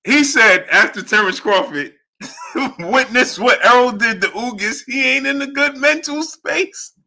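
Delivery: high, laughing retelling; helpless laughter. Real, not acted. Host retelling what Bob said, laughing uncontrollably. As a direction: struggle to get the quote out through laughter. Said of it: "I can't stop laughing".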